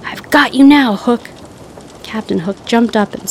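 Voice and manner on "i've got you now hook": high, loud challenge; triumphant shout. A narrator's reading. Peter confronting Hook on the deck, loud triumphant shout. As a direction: shout it like a hero arriving. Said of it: "He flew onto the deck and shouted".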